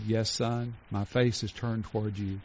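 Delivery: soft, reassuring father's answer; gentle father. Retold or imitated. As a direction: answer your child softly in the dark. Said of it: "He said".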